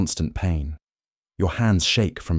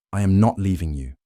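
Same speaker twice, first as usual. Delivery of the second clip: firm refusal. Acted. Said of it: "you say more firmly".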